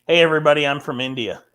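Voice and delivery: loud opening, mock Indian accent; half-hearted attempt at an Indian accent. Shown as a demonstration. Panelist showing off accents on request, badly faked Indian accent. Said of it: "Indian accent".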